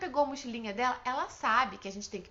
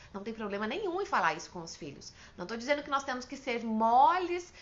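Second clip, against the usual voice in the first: usual speaking voice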